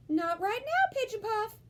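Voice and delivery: high, loud mother voice; a mother telling her daughter no; mama answering. A narrator's reading. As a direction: answer kindly but firmly. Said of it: "answered Mama".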